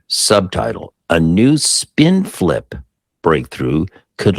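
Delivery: slow, dramatic announcer-style reading; headline read. Acted. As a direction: spell out the big news slowly, phrase by phrase. Reads out headline and subtitle.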